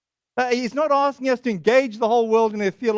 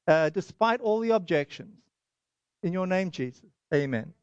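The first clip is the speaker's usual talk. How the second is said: quieter, sincere praying voice; prayer; 2 semitones lower, 3 dB quieter than usual. Real, not acted. Preacher asking God to anoint his preaching, prayerful. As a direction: settle into a soft, earnest petition to God.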